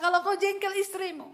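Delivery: normal talking voice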